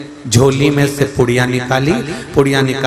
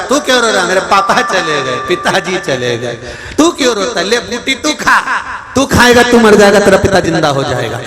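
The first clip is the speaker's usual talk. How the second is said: guru challenging the son; 5 semitones higher than usual. Acted. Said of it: "गुरुजी ने चिमटा खोल दिया".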